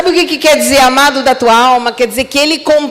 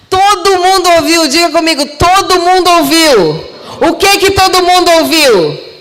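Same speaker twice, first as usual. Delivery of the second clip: higher, louder insistence; raised preaching voice; emphatic preaching; 5 semitones higher, 3 dB louder than usual. Real, not acted. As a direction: drive it home to the congregation. Preacher stresses everyone heard.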